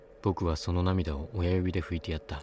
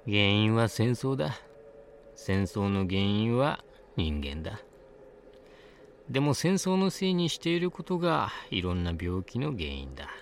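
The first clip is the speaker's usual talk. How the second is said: put-on high old woman voice; 5 semitones higher than usual. A narrator's reading. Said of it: "ワンオクターブ高い声で".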